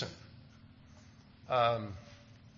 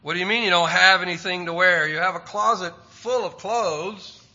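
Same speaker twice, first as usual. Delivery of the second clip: louder and fast, an exasperated mom; 3 semitones higher, 6 dB louder than usual. Retold or imitated. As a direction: rattle it off like a fed-up mother. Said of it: "every kid has heard mom say".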